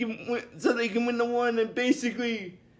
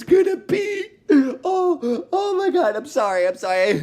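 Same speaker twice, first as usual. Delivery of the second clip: laughing; 4 semitones higher, 4 dB louder than usual. Real, not acted.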